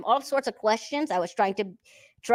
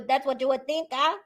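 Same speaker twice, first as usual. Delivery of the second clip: normal talking voice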